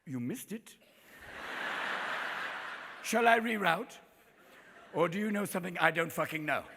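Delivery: condescending English GPS; bitchy English voice. Acted. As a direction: scold the driver in a snooty English accent. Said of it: "it's a bitchy English voice".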